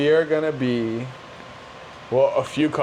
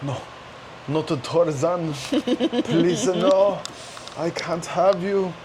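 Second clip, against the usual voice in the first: slow, mock Asian-accented dad; hammed-up Asian accent, drawn out in protest; accidental Asian accent; 4 semitones higher, slower than usual. Imitated dad objecting to a Tarzan fan, mock Asian accent. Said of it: "I'm doing an Asian accent".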